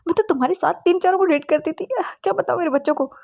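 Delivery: high, indignant wife scolding her husband; ranting mother. Acted. Wife berating her husband over their son, indignant and high-pitched.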